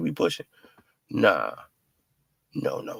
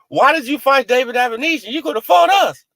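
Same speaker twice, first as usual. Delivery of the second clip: mocking Bozy's line; 7 semitones higher than usual. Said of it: "I told Crawford".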